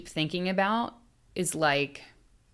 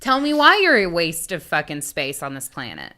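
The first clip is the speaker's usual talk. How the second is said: louder, taunting interrogation of a killer; mock angry interviewer; 4 dB louder than usual. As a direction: jeer at him like a furious interviewer.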